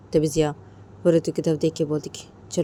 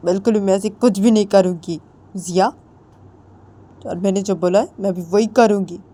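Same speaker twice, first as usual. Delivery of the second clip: angry accusing wife; 3 semitones higher, 4 dB louder than usual. Acted. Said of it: "Ritu वो बोलती कि".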